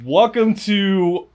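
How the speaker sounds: slow hammy show-host intro; announcer voice. Pretend. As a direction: play a cheesy TV host.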